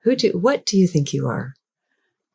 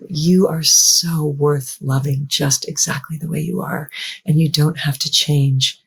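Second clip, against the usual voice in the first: loving inner voice. Pretend. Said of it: "a voice that says to you".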